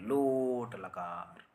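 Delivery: लोट drawn out slowly and pressed hard; stressed लोट. Shown as a demonstration. Teacher showing the stressed लोट in a lesson, slow. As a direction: stretch लोट long and heavy. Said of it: "load दे के बोलना पड़ता है".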